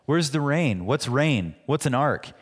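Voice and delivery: a touch of mockery in each question; imitated mocking. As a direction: mimic scoffers firing off doubting questions. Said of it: "people were mocking him and saying".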